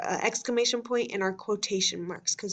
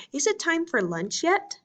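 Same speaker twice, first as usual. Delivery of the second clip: put-on a child's question read much higher; lightly voiced child asking; eager question; 7 semitones higher than usual. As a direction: lift it up like a kid asking about lunch. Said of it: "asked Micah".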